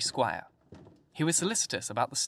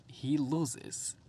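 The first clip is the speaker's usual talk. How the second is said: smiling; 2 semitones higher, 4 dB quieter than usual. A narrator's reading. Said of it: "the general smiled".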